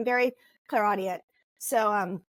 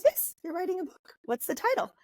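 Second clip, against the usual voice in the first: put-on French accent; 9 semitones higher than usual. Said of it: "in her very heavy French accent".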